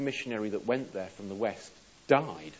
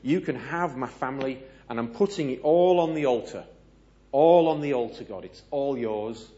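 earnest loud vow; 3 semitones higher, 10 dB louder than usual. Acted. Preacher voicing Chambers' offering.

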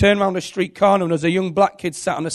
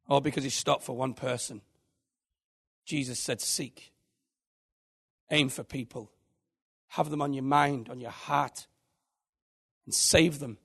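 hushed; 5 semitones lower, 12 dB quieter than usual. Real, not acted. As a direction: drop right down and let it land gently. Quiet reflective close of story.

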